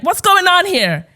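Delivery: slow, high, loud European-American imitation; drawn-out challenge in mixed European-American accent. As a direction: mimic an affronted rich man's European-American accent. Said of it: "European kind of mix with an American accent".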